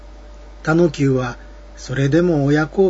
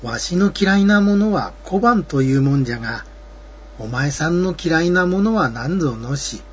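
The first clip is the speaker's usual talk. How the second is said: traveler voice. Acted. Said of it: "田野久も尋ねてみた".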